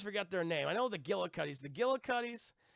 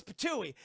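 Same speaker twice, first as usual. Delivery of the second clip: mock spit; 4 semitones higher than usual. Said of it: "he literally goes".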